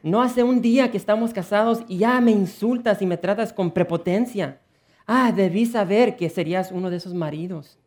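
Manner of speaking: high, loud hurt complaint; angry wife. Acted. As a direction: lash out at the husband. Bride continues angry quarrel.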